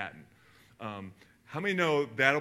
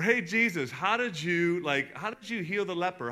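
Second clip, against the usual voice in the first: eager disciples; 6 semitones higher, 4 dB louder than usual. Retold or imitated. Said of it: "they'd be like".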